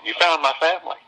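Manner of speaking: tearful. Retold or imitated. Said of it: "She starts crying on the phone".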